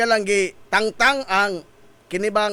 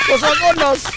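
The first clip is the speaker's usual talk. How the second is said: emphatic repeat; 6 semitones higher, 3 dB louder than usual. Acted.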